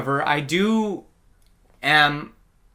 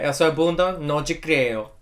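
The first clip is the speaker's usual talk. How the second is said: hammed-up Brazilian Portuguese voice; mock Brazilian accent; 2 semitones higher than usual. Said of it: "My Brazilian one".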